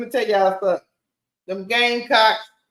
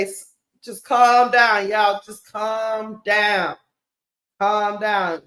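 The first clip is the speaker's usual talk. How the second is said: calming the troops; slower than usual. Retold or imitated. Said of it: "She's calming down the troops".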